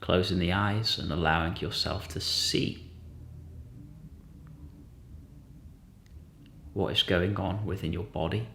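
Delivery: gentle guided-meditation voice, long pauses. Real, not acted. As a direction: lightly guide listeners inward, unhurried.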